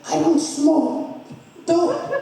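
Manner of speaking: high, slow, laughing refusal. Retold or imitated. Refusing Uncle Eric's roach, slow laughing protest. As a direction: drag it out through a laugh.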